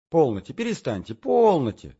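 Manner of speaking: high, loud hurried protest; quick protest. Acted. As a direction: brush him off with a rush. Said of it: "заговорила она". (высоко и громко отмахиваясь)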